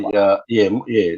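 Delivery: chewing while talking; mouth full. Real, not acted. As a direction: talk through a mouthful of food. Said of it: "I'm, I'm chewing".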